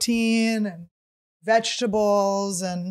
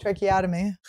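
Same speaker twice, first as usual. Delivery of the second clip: talking into chin. Real, not acted. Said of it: "She talks like this".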